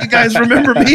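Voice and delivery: high, laughing, spaced-out hey; half-baked stoner greeting. Retold or imitated. Greeting old mob friends in prison, high and half-baked. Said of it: "it's like half-baked, black ass".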